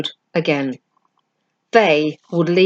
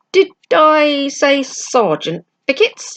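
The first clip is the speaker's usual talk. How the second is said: teasing question; 8 semitones higher, slower than usual. Acted. Patrick correcting rank, playful.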